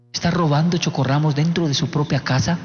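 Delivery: mildly ironic low question. Retold or imitated. Dad to son caught with snacks, ironic. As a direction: ask it with dry, understated irony. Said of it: "se lo digo con ironía".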